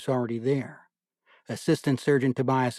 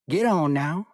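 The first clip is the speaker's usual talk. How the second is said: the major's lanky Southern drawl, pitched higher and louder; 5 semitones higher, 4 dB louder than usual. A narrator's reading. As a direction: call the men on in a drawling Southern voice. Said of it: "he said in his lanky Southern drawl".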